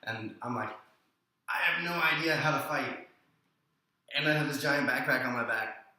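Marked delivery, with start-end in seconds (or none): 1.5-5.9 mildly panicked, raised-pitch inner monologue; retold panic. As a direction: replay a worried thought, a little higher. Retold panicky thought before a fight.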